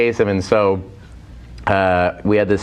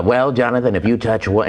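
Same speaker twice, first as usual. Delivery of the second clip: Casey Kasem. Retold or imitated. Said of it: "and he goes".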